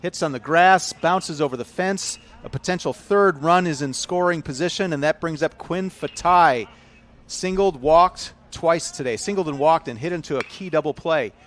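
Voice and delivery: shouted high and loud, riding the big hit; excited home-run call. Real, not acted. Commentator calling a big double for radio listeners, excited shout. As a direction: call the ball off the bat at full voice, then stay keyed up.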